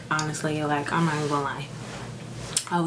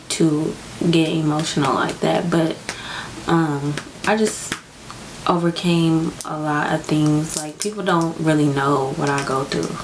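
real crying. Real, not acted. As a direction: speak while really crying, pushing through. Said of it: "why I'm crying right now".

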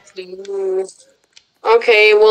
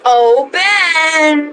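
spooky voice; 7 semitones higher than usual. Pretend. Spooky voice before demon line.

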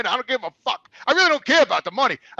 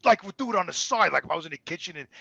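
ordinary talk

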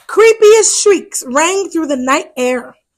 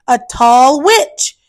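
put-on reading to children. A narrator's reading. To children, reading a Halloween picture book, lively storyteller voice. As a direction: tell it brightly to little ones.

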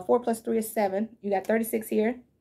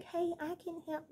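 sly offer; 7 semitones higher, 12 dB quieter than usual. Retold or imitated. Mocking the returning person.

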